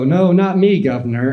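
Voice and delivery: high, chirpy fake Cockney "no, not me, governor"; mock Cockney denial. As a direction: dodge it like a Cockney chimney sweep.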